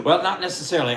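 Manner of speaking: high, loud, through laughter; laughing reply. Real, not acted. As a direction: laugh it off while answering. Laughs off student's supposed need.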